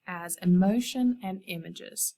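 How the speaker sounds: slowed for the class to think; unhurried, reflective; slow, thoughtful. Shown as a demonstration. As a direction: let each word land. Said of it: "think about that".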